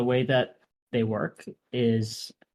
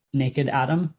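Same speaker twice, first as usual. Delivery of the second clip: slip of the tongue; 3 semitones higher, 3 dB louder than usual. Real, not acted. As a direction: say "naked Atom" by mistake. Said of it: "uh, native Atom".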